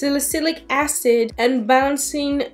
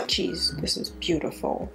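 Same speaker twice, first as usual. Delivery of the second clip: whispering; 5 semitones lower, 7 dB quieter than usual. Real, not acted. Tempted by the pretty swatches.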